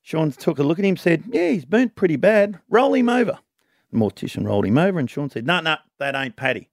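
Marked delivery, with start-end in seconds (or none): 1.3-3.4 put-on Irish accent, louder. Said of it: "trying to do the Irish accent only when someone speaks". 5.4-6.7 put-on Irish accent. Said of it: "trying to do the Irish accent only when someone speaks".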